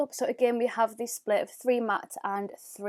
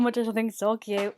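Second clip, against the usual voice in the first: whisper. Real, not acted. Gushing over the pom-pom.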